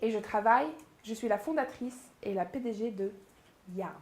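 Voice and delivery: name set apart with pauses on her first name, her surname and "Yarn"; slow, deliberate introduction. Shown as a demonstration. Coach introducing herself at a pitch, slow and deliberate. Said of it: "vous allez aller tellement lentement".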